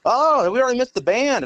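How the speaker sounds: high mock bystander voice; middle-aged couple. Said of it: "they're like".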